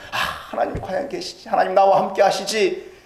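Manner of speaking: gently asking God to be there; hopeful confession. Retold or imitated. Preacher voicing a believer's tentative, hushed confession. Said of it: "라고 고백하고 보니까".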